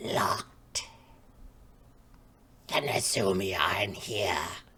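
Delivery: rasping, low voice. Retelling an answer from behind a train toilet door: very raspy voice. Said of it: "in a very raspy voice".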